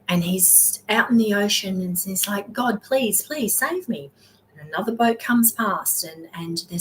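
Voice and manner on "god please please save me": higher plea to God; mock drowning man begs God again; desperate pleading. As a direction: beg again, more urgent.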